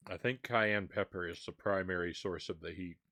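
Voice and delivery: talking through a mouthful of seeds; mouth full. Real, not acted. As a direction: speak with your mouth full. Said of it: "Sorry to talk with my mouth full".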